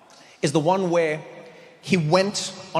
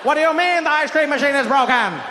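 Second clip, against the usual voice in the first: laughing mock outrage, louder; JFK outraged; 4 semitones higher, 4 dB louder than usual. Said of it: "with that voice".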